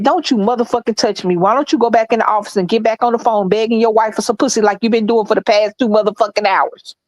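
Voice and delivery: steady, unbroken telling-off. Retold or imitated. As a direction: retell a tirade in one even run. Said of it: "I said all that just like that".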